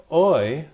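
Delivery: Oi as one gliding "oy", as in oil; Oi like "oil" without the l; oi sound. Shown as a demonstration. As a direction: sound out Oi loudly by itself. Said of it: "this makes an oi sound".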